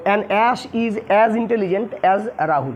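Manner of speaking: very slow, word by word dictation. Shown as a demonstration. Teacher dictating the English sentence to students, very slow. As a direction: spell it out slowly for students to copy down. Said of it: "teacher reads English sentence aloud".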